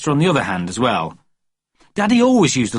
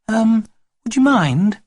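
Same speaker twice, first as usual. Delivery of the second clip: put-on soft babysitter voice; 10 semitones higher, 3 dB louder, slower than usual. A narrator's reading. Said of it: "A soft voice like that".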